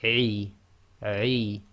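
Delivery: "Ai" with a tight throat catch; Arabic ain. Shown as a demonstration. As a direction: start the sound then choke it in the throat. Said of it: "start the sound and then block the throat".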